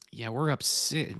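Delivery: whisper. Real, not acted. Checking his points total.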